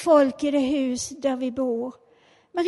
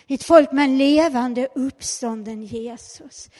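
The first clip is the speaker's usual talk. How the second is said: declared aloud; 6 dB louder than usual. Real, not acted. Repeats it aloud.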